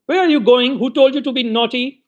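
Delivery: scolding. Acted. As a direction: tell the boy off fast. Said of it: "seizing him roughly by the shoulder".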